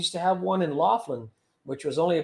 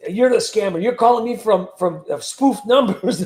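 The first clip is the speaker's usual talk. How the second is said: imitating an indignant scammer, louder; mock pissed; 3 semitones higher, 5 dB louder than usual. Retelling an angry caller's accusation, loud mock indignation. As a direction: raise your voice in retold outrage. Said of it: "really pissed".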